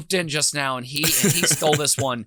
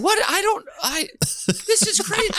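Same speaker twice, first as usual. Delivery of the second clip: words breaking into real laughter, pitched up; laughing disbelief; 14 semitones higher than usual. Real, not acted. Host cracking up at the diarrhea story, laughing. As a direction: laugh through it, can't believe the story.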